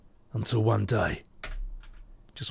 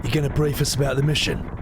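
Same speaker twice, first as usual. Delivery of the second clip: Ben Starr voice; 3 semitones higher, faster than usual. Acted. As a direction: read it as Ben Starr would. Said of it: "I'm Ben Starr again".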